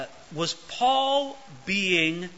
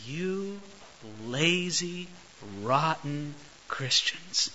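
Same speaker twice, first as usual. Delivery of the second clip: annoyed scolding; 2 semitones lower, 7 dB quieter, much slower than usual. Retold or imitated. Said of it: "we get annoyed with people".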